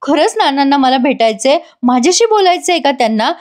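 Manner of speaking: mildly acted happy surprise, lifted pitch; delighted. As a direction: voice her delighted disbelief, lightly. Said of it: "हे ऐकून जानकी इतकी खुश होते". (आनंदित स्वरात, हलका अभिनय)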